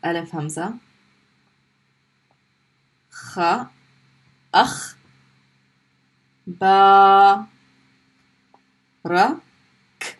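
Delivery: akhbarak broken into sounds one by one; spelling out sounds. Shown as a demonstration. Teacher spells akhbarak letter by letter for students. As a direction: sound out each letter separately. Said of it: "end it with the kaf".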